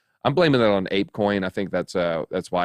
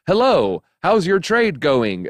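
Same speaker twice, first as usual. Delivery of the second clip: higher, louder, slow fake-friendly greeting; mocking a scam message to viewers; mock scammer; 6 semitones higher, 3 dB louder, slower than usual. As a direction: imitate a scammer's sugary opener. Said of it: "I will never message you and say".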